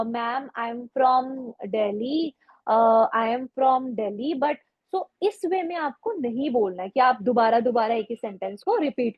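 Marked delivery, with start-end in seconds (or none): 0.0-4.4 slow, hesitant, repeating the same line; nervous repeating student. Shown as a demonstration. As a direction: mimic a flustered candidate stuck on one sentence. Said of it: "sometimes we say". (घबराए छात्र की तरह धीरे-धीरे एक ही वाक्य दोहराना)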